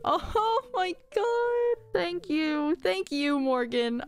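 high, slow laughing oh my god; touched laugh. Real, not acted. Moved by the little NPC's confession, high laughing gush. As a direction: melt at the sweet words.

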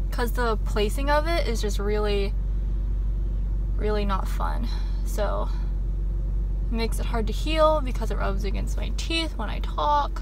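talking with a swollen lip; with a mouth ulcer. Real, not acted. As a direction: speak around a sore mouth. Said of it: "can you tell how swollen my lip is".

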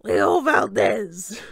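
slow, drawn-out angry yell. Acted. Coach yelling at Leo from his seat, loud. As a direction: bellow the name across the bus. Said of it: "Coach Hedge yelled from his seat".

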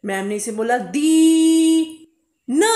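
दी न said slowly as two parts; slow split syllables. Shown as a demonstration. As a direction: break दी न apart, slowly. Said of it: "अब देखो दी नहीं ना बोला मैम ने". (धीरे धीरे अलग अलग दी न)

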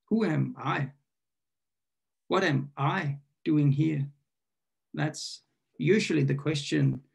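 deliberate poem reading with long pauses; poetry reading. Acted. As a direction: pose each line as a question to ponder. Poem read aloud.

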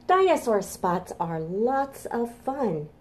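slightly slow, rhythmic chant; rhyme recitation. Acted.

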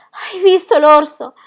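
loud, high, slow cry; frantic shout. Acted. Ronia shouting to Birk in tears, frantic cry. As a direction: call out in panic. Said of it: "gli gridò".

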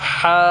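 হা squeezed from the throat and held; throat-pressed ha. Shown as a demonstration. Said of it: "হাটাকে আমরা গলায় চাপ দিয়ে উচ্চারণ করব". (হা গলায় চাপ দিয়ে টেনে)

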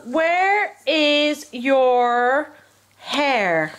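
very slow, drawn-out teaching questions. Real, not acted. Quizzing toddler on body parts.

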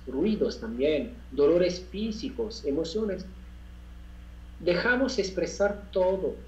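unhurried instruction in short phrases with pauses; guided meditation. Real, not acted. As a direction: guide listeners step by step through breathing.

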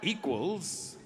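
a mock brain translating word by word, stretched out; slow translating voice. Shown as a demonstration. Comic acting out a greeting being translated in the head. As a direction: spell out the translation slowly. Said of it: "and you see it go".

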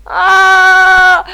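high loud scream; scream of fright. Real, not acted. Gamer screaming in fright at a monster. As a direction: let out a full scared scream.

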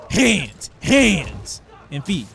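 loud hyped shout, the last hands drawn out slow; shouting hype at the game; excited shouting. Real, not acted. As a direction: yell each word like a battle cry. Hyped calling out moves.

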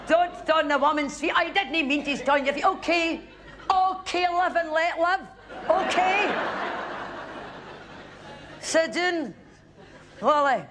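a hint of a drunk wife complaining about the actress; lightly played drunk woman, laughing through it; drunk heckler. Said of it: "severely refreshed".

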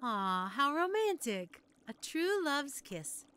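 slow, swooning admiration; charmed cooing. Acted. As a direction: coo over a love story. Witch swoons over customer's love story.

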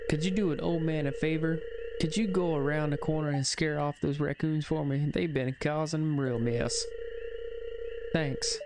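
lightly voiced country old man; old-timer with an easy country twang; country accent. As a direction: ask a favor in a country accent. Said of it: "gave everybody in this town a country accent".

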